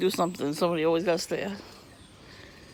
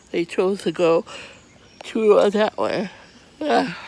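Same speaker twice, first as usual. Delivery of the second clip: loud, slow, fed-up complaint; exasperated outburst; 5 semitones higher, 9 dB louder, slower than usual. Real, not acted. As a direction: lean hard on that way, furious at the neighbors. Ranting about neighbors' parking.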